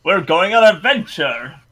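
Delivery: acted hero setting off; greeting his steed. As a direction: hail your horse like an adventurer. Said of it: "Leon is like".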